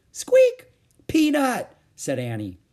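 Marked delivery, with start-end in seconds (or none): 0.1-0.7 very high, loud squeak; mouse squeak. Acted. Voices the tiny mouse Peanut. 1.1-1.8 high, loud happy cry; excited greeting. Acted. Annie delightedly greets the mouse.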